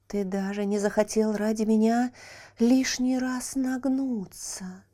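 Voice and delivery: bitter, slowing at the end; water reproaching the chick; reproachful water. Acted. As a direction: throw his cruelty back at him. Water answers angrily.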